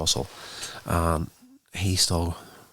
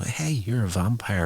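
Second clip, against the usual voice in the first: a slightly raised voice as the thought dawns; dawning realisation; 4 semitones higher than usual. Retold or imitated. Cordelia realising her host is a vampire, mild surprise. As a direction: let it dawn on her mid-sentence. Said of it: "Then it dawns on her that".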